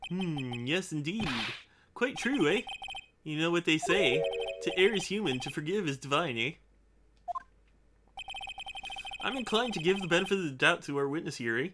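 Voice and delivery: lightly voiced Canadian judge ending lines with eh; a mild Canadian judge, musing and benevolent. Streamer voicing the judge siding with the witness, light Canadian accent. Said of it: "Canadian judge voice is great".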